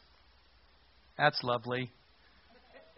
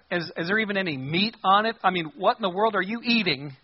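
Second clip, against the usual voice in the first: higher-pitched baffled disbelief; incredulous; 5 semitones higher, 4 dB louder than usual. Real, not acted. Preacher reacting to donkey head on the menu, incredulous. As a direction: ask it like you can't fathom it.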